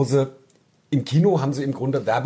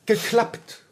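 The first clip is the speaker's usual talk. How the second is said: mocking woman; 11 semitones higher than usual. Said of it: "Und dann sagt diese blöde".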